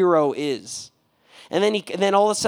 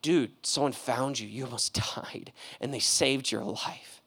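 much softer, hushed telling; soft innkeeper; 8 semitones lower, 10 dB quieter than usual. Retold or imitated. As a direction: break the news gently to a patient. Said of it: "the innkeeper is like".

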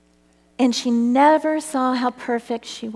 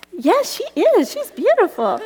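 higher, louder, laughing through "she's beautiful"; laughing agreement; 8 semitones higher, 4 dB louder than usual. Retold or imitated. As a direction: gush it out between laughs. Laughing reply at the drive-thru.

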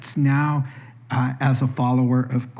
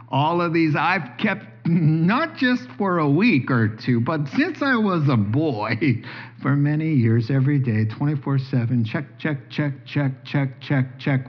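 smug boasting. Retold or imitated. Rich young ruler boasting.

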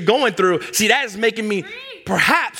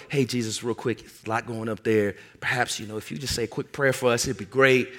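softer, casual, offhand ask; mock calm request; 6 semitones lower, 7 dB quieter than usual. Disciples calmly asking Jesus for a quick prayer, softly. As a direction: play it like a relaxed favor, not a panic.

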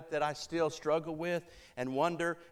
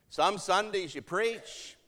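higher, slow delivery rising on "Sundays"; pointed high remark; 4 semitones higher, slower than usual. Retold or imitated. Matriarch remarking to preacher on his preaching, pointed and high. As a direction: lift "Some Sundays you preach" high and measured.

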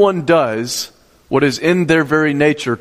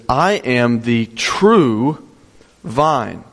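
"true" drawn out long, pause before vine; slow, with "true" stretched and held; stress on true; 2 semitones lower, much slower than usual. Shown as a demonstration. Preacher reading Jesus' words to congregation, stress on "true". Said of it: "it's emphasizing certain words".

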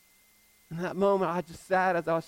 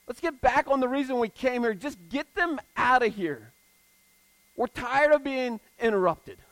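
impatient disciples; 3 semitones higher than usual. Retold or imitated. Disciples voiced, wanting them gone.

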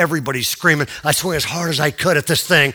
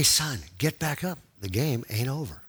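faint voice repeated; 3 semitones lower, 10 dB quieter than usual. Retold or imitated. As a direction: retell a voice heard faintly. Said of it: "I heard again".

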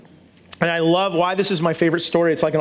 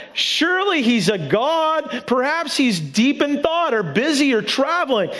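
slow, mocking taunt, pitched higher; drawn-out mock concern; sarcastic taunt; 5 semitones higher than usual. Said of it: "this is a little bit of sarcasm".

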